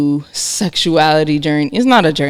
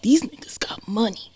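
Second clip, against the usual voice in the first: hushed whisper under the breath; 5 semitones higher, 9 dB quieter than usual. Retold or imitated. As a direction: whisper it like a secret aside. Retold thought in a club.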